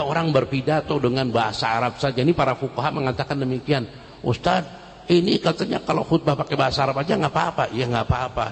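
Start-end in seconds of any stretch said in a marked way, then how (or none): 4.2-7.6 laughing question. Acted. Congregant asks ustaz, laughing.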